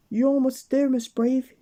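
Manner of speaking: high, loud cheer. Acted. Mister Bump cheering Miss Brave down the cliff, loud and high. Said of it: "cheered Mister Bump, encouragingly".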